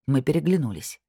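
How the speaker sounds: ordinary delivery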